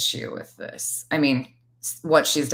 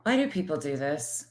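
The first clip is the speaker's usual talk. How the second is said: high, repeated stunned whats; shocked disbelief; 7 semitones higher than usual. Real, not acted. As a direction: react in utter disbelief.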